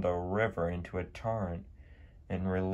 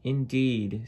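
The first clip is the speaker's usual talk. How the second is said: Annie voice; 5 semitones higher than usual. A narrator's reading. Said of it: "said Annie".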